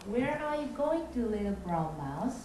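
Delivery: slow, even storyteller read; calm narrator style. Shown as a demonstration. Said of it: "나레이터 스타일로". (차분한 성우 내레이션 톤)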